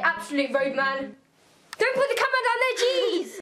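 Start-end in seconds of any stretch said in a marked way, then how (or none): 1.8-3.4 high, exasperated telling-off. Real, not acted. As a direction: snap at the cameraman. Scolding camera holder.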